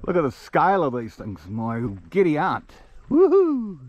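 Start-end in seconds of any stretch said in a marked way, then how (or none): 3.1-3.8 much higher, loud whoop; joyful whoop. Real, not acted. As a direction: whoop out to the hills. Cheering at the view.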